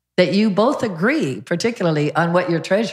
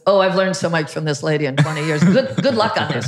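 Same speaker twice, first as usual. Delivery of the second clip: laughing while quoting. Retold or imitated. Retelling the trainer's joke, laughing. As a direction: quote said through laughter. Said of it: "He goes".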